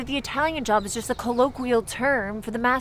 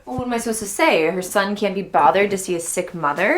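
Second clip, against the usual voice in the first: loud, exasperated challenge; angry confrontation; 7 dB louder than usual. Acted. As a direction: throw the accusation at your brother. Acted quarrel over sick mother.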